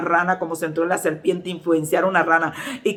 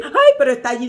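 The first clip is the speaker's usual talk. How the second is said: higher, louder worried protest; mock alarm; 5 semitones higher, 5 dB louder, faster than usual. Frightened sister insisting about the spider, mock alarmed protest. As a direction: imitate a scared woman insisting.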